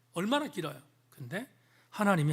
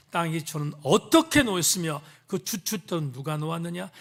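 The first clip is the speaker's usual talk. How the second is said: dramatic scripture reading. Acted. Reading God's questions dramatically.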